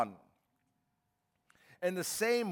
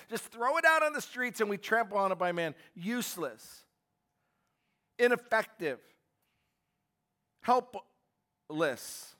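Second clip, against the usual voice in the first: raised, insistent preacher's voice; forceful preaching; 4 semitones higher, 4 dB louder than usual. Acted. Preacher warning the congregation, raised and insistent. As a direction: drive home the warning to the church.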